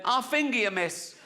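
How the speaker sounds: blurted tic. Retold or imitated.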